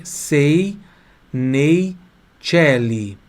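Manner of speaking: isolated words with pauses between; deliberate teacher's dictation; piece by piece. Shown as a demonstration. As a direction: model each Italian word separately for repeating. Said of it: "Eu vou falar um pedacinho".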